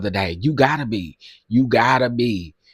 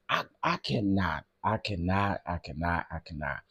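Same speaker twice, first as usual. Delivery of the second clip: fading to nothing; 5 semitones lower, 10 dB quieter than usual. Real, not acted. Fading exasperation.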